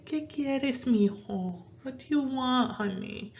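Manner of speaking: put-on mother gently answering her child; nicer. Shown as a demonstration. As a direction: ask gently like to your little one. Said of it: "if you wanna be nicer".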